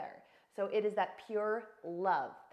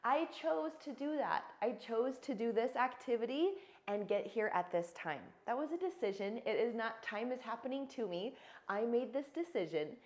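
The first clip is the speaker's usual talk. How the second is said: owning the choice. Shown as a demonstration. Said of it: "be honest and specific".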